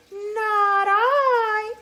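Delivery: high, loud cat whine; whiny cat. Acted. Cat refuses to help the little red hen, whiny. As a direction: whine it out like a meow. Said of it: "said the cat".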